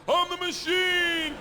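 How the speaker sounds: high, loud, drawn-out bellow; triumphant yell. Retold or imitated. Student shows all the language he knows, triumphant yell. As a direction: bellow it as your only phrase. Repeats his one Russian phrase.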